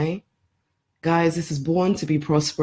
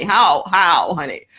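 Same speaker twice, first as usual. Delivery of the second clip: real laughter breaking into a high giggle; can't hold back the laugh at the idea; 4 semitones higher, slower than usual. Real, not acted. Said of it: "Okay, I'm laughing".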